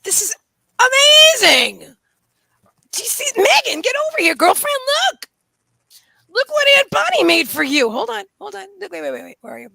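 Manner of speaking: high, loud excited dog-talk; thrilled squeal. Real, not acted. Owner shows dog the gift toy, thrilled.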